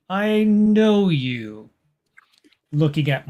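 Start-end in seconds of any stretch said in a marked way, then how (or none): 0.1-1.7 drawn-out, very slow words; slow recognition. Acted. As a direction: stretch it out as if placing a face. Villain slowly recognises an old acquaintance.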